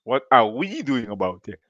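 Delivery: yawning through the words; stifling a yawn while speaking. Real, not acted. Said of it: "I don't know why I'm yawning".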